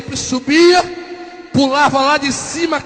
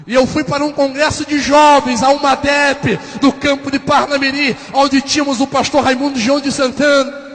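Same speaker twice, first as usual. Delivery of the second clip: testimony gathering force toward a climax; pregação de avivamento; 2 semitones higher, 4 dB louder than usual. Real, not acted. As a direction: preach it with rising energy, voice lifted. Prega o avivamento com força. (pregação animada, ganhando força)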